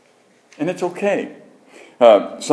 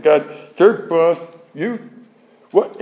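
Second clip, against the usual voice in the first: mock exasperation, pitched up; retold angry yelling; 7 semitones higher, much slower than usual. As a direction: re-enact yelling at God in frustration, without real volume. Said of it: "I was so mad, I was crying".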